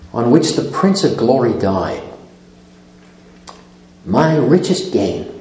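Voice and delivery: slow, reverent reading with long pauses; hymn stanza reading. Acted. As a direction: read the verse line by line, softening at the end. Reads a hymn stanza aloud.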